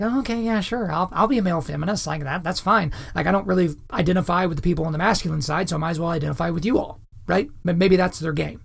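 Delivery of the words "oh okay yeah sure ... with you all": meek, softer acquiescent mock voice; lightly voiced go-along pushover; beta male. Beta male giving in to feminists, meekly mocked. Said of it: "these beta males that are like".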